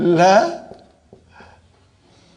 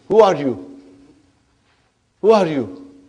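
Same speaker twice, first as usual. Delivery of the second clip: mock challenge, a little louder; confronting; 3 dB louder than usual. Inna questions lam in the front spot, confronting. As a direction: demand it like an intruder is found.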